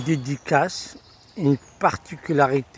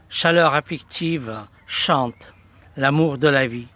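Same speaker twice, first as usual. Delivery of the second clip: verse read in short, measured phrases; poem recitation. Acted. Presenter celebrates the artist's songs and poems, poem recitation. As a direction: declaim each phrase, falling away at the close.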